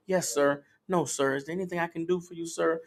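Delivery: quietly eager to serve; lightly acted obedient woman. Acted obedient woman answering politely, gently.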